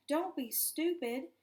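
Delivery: a high, loud, panicked plea; urgent hushed scream. A narrator's reading. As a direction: stop a friend from doing something reckless. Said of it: "Richie screamed under his breath".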